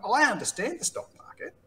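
eager realisation. Retold or imitated. Realising he gets crypto.

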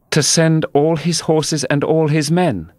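put-on high girl's voice, blurting ahead; eager interruption. A narrator's reading. Alice cutting Humpty Dumpty off, eager. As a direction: jump in before he finishes. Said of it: "Alice interrupted".

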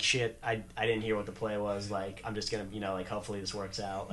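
nervous mutter. Retold or imitated. Lineman at the line unsure of the call, worried mumble. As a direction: mumble it like you missed the play.

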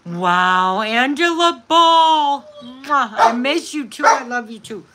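light up and gush at a fan; excited gushing greeting. Real, not acted. Greeting a viewer by name on a live stream, gushing.

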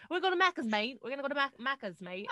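put-on Aussie accent. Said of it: "You'd be like".

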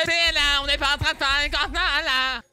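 loud, high Québécois caricature; mock Québécois accent. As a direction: rattle off a shouted Québécois parody. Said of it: "le bon français". (caricature québécoise criée)

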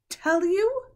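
scornful shriek of a queen; shrill witch. A narrator's reading. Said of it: "her voice growing suddenly shriller".

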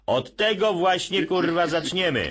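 high, loud crude shout; brash shout. Retold or imitated. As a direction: bark it out like a rough boss.

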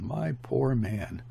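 slow, understated lament; mild moaning. Acted. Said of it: "heard her moaning".

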